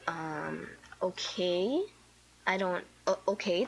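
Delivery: halting, subdued okay; awkward hesitation. Retold or imitated. Girl answering her dad's lecture, awkward and hesitant. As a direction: falter with unsure pauses.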